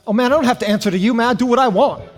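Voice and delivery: fast, defiant brush-off with a laugh; cocky talk-back. Retold or imitated. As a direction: toss it off like a cocky kid. Defiant young Jim talks back.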